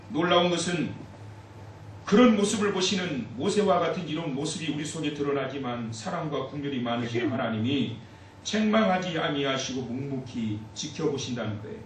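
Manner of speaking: ordinary talk, nothing marked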